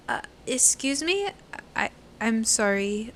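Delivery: put-on slow, hesitant foreign-accented English. Dodging people outside the gas station, slow put-on foreign accent. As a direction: fake a foreign accent, unsure of the words. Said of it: "I'll say it in some kind of accent".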